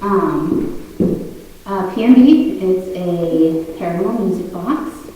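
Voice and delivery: breathless, catching air between words; out of breath. Real, not acted. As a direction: still out of breath, talking. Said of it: "sorry, I'm very out of breath".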